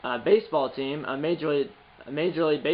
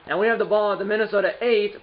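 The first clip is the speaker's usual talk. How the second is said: ordinary talk, nothing marked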